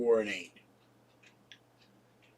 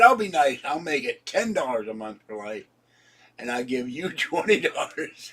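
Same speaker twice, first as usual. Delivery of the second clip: teasing, laughing; 3 dB louder than usual. Retold or imitated. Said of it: "I said".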